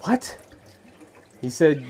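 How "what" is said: sudden high-pitched what, caught off guard; a startled yelp of disbelief; shocked what. Retold or imitated. Missionary reacting to villagers with startled disbelief.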